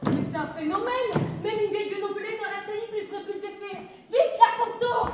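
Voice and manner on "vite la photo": urgent shout. Acted. Panique, appel urgent.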